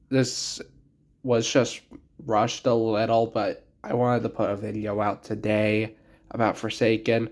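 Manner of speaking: talking through a cold, sick voice. Real, not acted. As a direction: voice worn down by a cold. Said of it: "Sorry for my sick voice".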